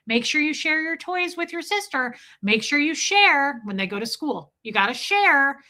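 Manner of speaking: a hint of a parent instructing small children; lightly voiced parent. Parent telling kids to share toys, lightly imitated.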